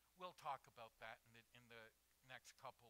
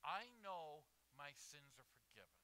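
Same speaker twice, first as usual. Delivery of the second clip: emphatic declaration, building louder and higher; 5 semitones higher, 8 dB louder than usual. Acted. Believer comes to God sure of forgiveness, emphatic. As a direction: insist on it, each statement stronger.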